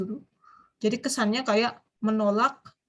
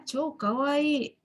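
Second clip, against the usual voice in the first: gushing praise; 4 semitones higher, much slower than usual. Shown as a demonstration. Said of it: "cakep bener gitu ya".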